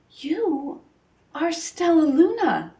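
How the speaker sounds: slow, tender, rising with joy; a mother finding her lost baby; tender whisper. A narrator's reading. Mother Bat recognising her lost child, slow and tender. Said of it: "she whispered".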